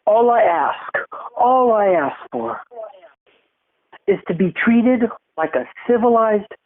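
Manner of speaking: high, half-sobbing, hammed-up begging; imitating a crying, pleading man; mock crying plea. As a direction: fake a tearful plea. Voicing him pleading with her.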